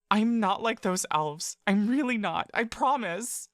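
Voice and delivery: put-on high, pleading small girl's voice; a child elf begging not to be let go; frightened little girl. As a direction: beg like a scared child clinging on. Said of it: "The voice is still Bella's".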